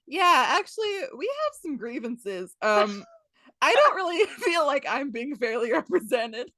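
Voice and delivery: high, hesitant airing of grievances; prim little protest, played for laughs; mock formal complaint. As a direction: imitate a politely aggrieved worker. Pirates voiced as polite complainers.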